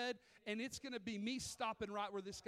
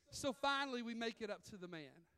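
ordinary delivery

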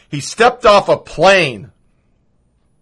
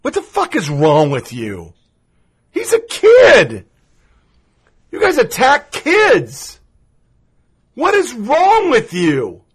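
hammed-up sobbing outrage, high and slow; mock crying; 5 semitones higher than usual. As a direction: wail it like a fake sob. Mocking liberal outrage, fake crying.

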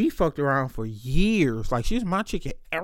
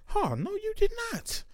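indignant denial; 3 dB quieter than usual. Retold or imitated. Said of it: "I was like".

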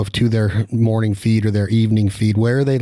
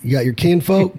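mock Southern; 7 semitones higher than usual. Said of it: "I wish I talked Southern".

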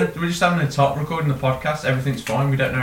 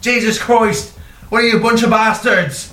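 put-on forceful Irish accent; 8 semitones higher than usual. Detective as the door opens, forceful Irish shouting. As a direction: berate them in a hammed-up Irish accent. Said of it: "He's so forceful".

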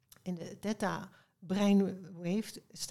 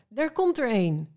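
higher, louder storybook exclamation; calling out; 4 semitones higher, 6 dB louder than usual. A narrator's reading. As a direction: call it out as if suddenly inspired. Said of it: "riep hij".

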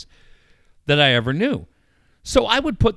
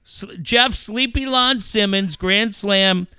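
mock announcer call; 6 semitones higher, slower than usual. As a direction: ham up a sleepy announcer's call. Mocking the boring announcer.

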